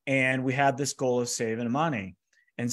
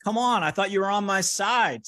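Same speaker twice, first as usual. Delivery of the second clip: raised, louder, upset protest with a laugh at the start; retelling an argument with the coach, higher and louder; mock indignant protest; 6 semitones higher, 3 dB louder than usual. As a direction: sound betrayed and indignant, pitched up high. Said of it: "So I start arguing with him".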